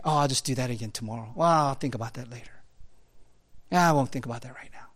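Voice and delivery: quick, hushed self-excusing mumble; the little voice putting things off; mock excuse voice. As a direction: rattle off lazy excuses under your breath. Inner excuses voiced by preacher.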